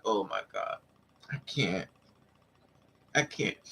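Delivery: low, soft, exasperated murmur; overwhelmed hush. Retold or imitated. Overwhelmed by a man following her, low soft groan. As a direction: sink down and mutter it softly.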